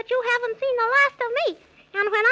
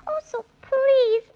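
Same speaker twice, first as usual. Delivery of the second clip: tearful plea; 2 semitones higher, 3 dB louder, slower than usual. Acted. Begging the keeper for rubies.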